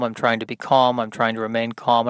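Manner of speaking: trying hard to sound calm; forced calm. Shown as a demonstration. Comic talking himself down, forced calm. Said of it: "come from a place of calm".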